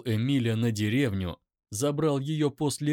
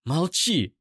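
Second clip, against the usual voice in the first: high, loud command; angry shout; 5 semitones higher, 5 dB louder than usual. Acted. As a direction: cut him off hard. Eira orders him silent.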